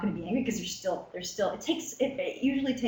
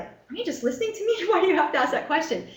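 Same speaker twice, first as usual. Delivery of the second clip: mock irritated patient; 8 semitones higher, 5 dB louder than usual. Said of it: "and then be like".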